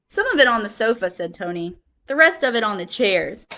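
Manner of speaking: lively picture-book reading with quote voices; reading to children. Acted. Teacher reading picture book to class, lively storytelling. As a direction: read it like story time for little kids.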